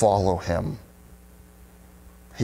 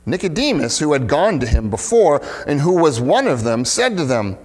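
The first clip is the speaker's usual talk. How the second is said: measured, expressive public Bible reading; scripture reading; 2 semitones higher than usual. Acted. Pastor reading John seven to the congregation, scripture reading. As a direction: read the passage out clearly, lifting the questions. Reads the scripture passage aloud.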